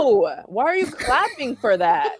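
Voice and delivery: slow, laughing incredulous question; laughing disbelief. Real, not acted.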